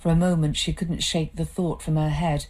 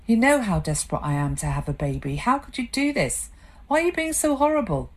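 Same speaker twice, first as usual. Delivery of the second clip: rising higher, faster, desperate plea; desperate wife; 6 semitones higher, faster than usual. Acted. Wife desperate for a baby pleading with husband. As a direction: beg him to stop hurting her.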